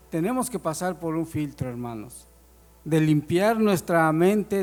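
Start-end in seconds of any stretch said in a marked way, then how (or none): 2.8-4.6 emphatic preaching. Real, not acted. Preacher driving his point home.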